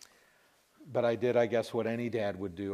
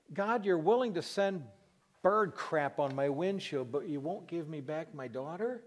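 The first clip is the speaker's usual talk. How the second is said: acted protest; 5 semitones higher than usual. Bereaved father questioning God about his daughter, high incredulous protest.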